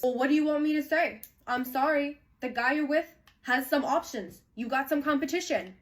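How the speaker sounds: retold defiant non-apology, high and emphatic; defensive comeback. Imitating him answering her accusation, high defensive comeback.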